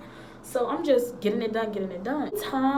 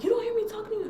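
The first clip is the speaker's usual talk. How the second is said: mock teacher; 11 semitones higher, much faster than usual. Teacher demanding attention again.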